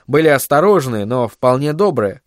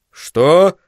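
higher-pitched startled question; astonished exclamation; 4 semitones higher, 4 dB louder than usual. Acted. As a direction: blurt it out in surprise. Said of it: "воскликнул он". (удивлённый возглас)

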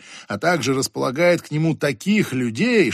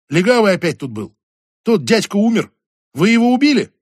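put-on higher, louder rapid girl voice; excited girl voice; 6 semitones higher, 6 dB louder than usual. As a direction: blurt it all out breathlessly. Lily's rapid report.

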